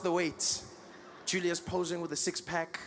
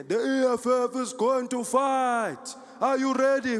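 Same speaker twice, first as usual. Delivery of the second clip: high, loud, slow rally speech; chanting orator's call; Julius Malema; 5 semitones higher, 3 dB louder, slower than usual. Retold or imitated. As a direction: rouse the crowd as a political leader. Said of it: "Every day he was there".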